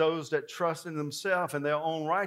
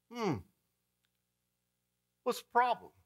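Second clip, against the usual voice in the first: lightly voiced, higher, just woken; mock sleepy Jesus; 6 semitones higher, 3 dB quieter than usual. Jesus just woken by disciples, mildly roused. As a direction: yawn into it. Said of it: "he says".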